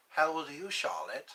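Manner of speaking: lightly voiced Hannibal Lecter. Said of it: "I like using my Hannibal Lecter voice".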